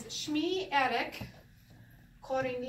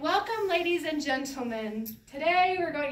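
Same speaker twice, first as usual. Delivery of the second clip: loud, higher announcer-style welcome; addressing a crowd; 4 semitones higher, 7 dB louder than usual. Acted. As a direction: project grandly to a big audience. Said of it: "addressing a crowd".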